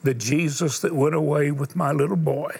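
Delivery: sermon storytelling. Acted. Preacher tells a dying boy's story to the congregation. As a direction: let each pause land, preacher telling a story.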